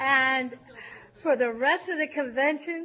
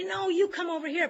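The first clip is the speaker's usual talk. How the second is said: mock yell; 6 semitones higher, faster than usual. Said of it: "screaming at Southern California".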